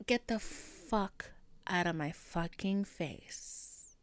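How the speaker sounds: slow, drawn-out warning; slow retold warning. Cutting off the hipster's excuse, slow and emphatic. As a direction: space out each word to cut him off.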